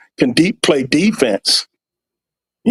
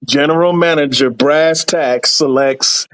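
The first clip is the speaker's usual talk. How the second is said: draft announcer. Acted.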